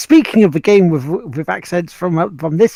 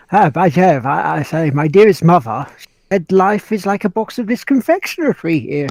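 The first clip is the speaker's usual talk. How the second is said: posh British. Retold or imitated. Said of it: "posh Brit guy's like".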